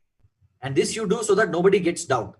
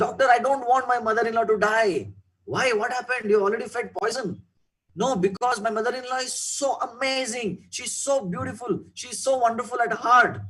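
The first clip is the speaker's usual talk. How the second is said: put-on higher, anxious young wife pleading with the doctor; a remorseful daughter-in-law begging for help; 5 semitones higher than usual.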